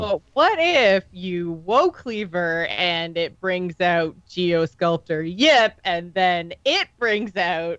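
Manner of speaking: slow, drawn-out hypothetical with a sarcastic ring; sarcastic-sounding. Real, not acted. Co-host pitching an absurd card chain, sarcastic-sounding. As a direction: spin out the chain slowly, as if half joking. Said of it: "you sound sarcastic".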